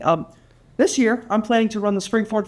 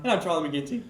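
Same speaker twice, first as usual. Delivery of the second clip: cracking voice mid-intro; 3 semitones lower, 4 dB quieter than usual. Real, not acted. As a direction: voice cracks on the name. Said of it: "And I had a voice crack".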